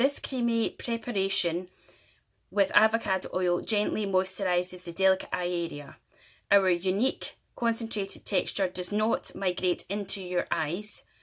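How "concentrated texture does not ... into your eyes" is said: ordinary talk, nothing marked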